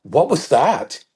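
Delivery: baffled, rising "whoa, dude, what was that"; half-laughing disbelief at a friend's outburst; startled onlooker. Retold or imitated. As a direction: ask like you can't believe what you just saw. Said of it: "someone looks at me and goes".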